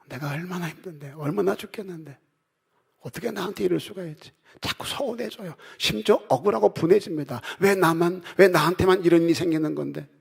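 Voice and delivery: high, whiny mock self-pity. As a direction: whine like the wronged one. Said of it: "나만 생각하면". (높고 징징대는 흉내 낸 서러움)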